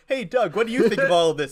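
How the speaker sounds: high, loud, fast cheerful call; eager hosting. Acted. Podcast hosts asking the expert's opinion, eager acted call. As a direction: hail the guest chirpily.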